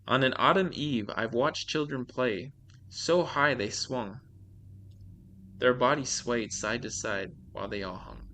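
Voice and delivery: measured read-aloud of a creepy tale; storyteller's deliberate delivery; scary story narration. A narrator's reading. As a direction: read it out like a short horror story. Reads scary stories aloud.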